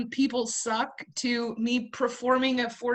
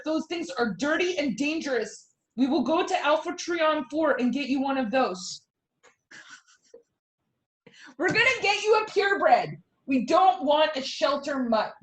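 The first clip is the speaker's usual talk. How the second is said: scolding mom. Acted. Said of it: "I'm now an alien mom yelling at her imaginary alien".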